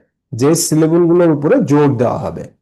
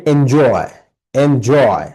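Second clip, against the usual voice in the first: এনজয় with the weight on its second syllable, জয়; stress on জয়; much slower than usual. Shown as a demonstration. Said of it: "জয় এটা জোর দিয়ে বলা". (এনজয়-এর জয় অংশে জোর)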